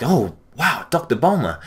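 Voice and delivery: lightly voiced fans in awe of Doctor Bulma; amazed admiration. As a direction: sound impressed that she's there. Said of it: "doesn't sound like they're really amazed".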